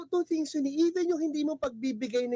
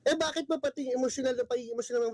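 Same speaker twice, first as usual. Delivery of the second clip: playfully worked-up, insistent questioning; mock indignation; faster than usual. Guest doctor teasing the hosts about Filipinos being emotional, mock-indignant. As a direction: pretend to take offence, firing off the questions. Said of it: "Galit ka, no? Emotional ka agad".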